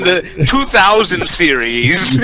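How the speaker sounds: slow, lightly put-on know-it-all voice, laughing; erudite fan. Teasing the learned fans of fighting games, mock-erudite drawl. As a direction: stretch it out in mock scholarly fashion. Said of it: "when you have the erudite individuals".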